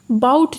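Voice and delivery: बाउट given clear stress; stressed syllable. Shown as a demonstration. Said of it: "बहुत ज़्यादा उस पर stress डल रहा है".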